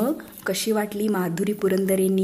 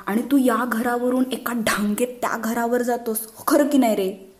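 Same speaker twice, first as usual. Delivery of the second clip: put-on higher, pestering little-boy voice; eager child pleading; 5 semitones higher than usual. Boys pestering their father, eager higher child voice. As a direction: coax dad eagerly.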